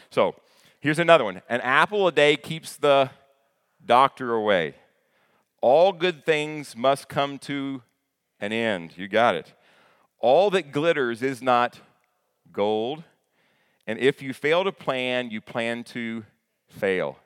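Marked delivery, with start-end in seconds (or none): 1.5-9.0 sayings called out. Acted. Preacher reciting sayings aloud. 10.2-17.2 sayings called out. Acted. Preacher reciting sayings aloud.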